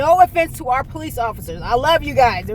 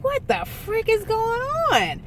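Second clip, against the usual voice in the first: high, slow, stunned panic; panicked disbelief; 12 semitones higher, 3 dB quieter, slower than usual. Retold or imitated. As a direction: squeal it out in alarm. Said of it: "I was just like".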